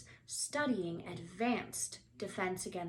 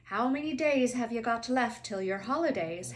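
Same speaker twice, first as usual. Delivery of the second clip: Hagrid voice; 3 semitones higher, 6 dB louder than usual. Acted. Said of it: "Hagrid asked".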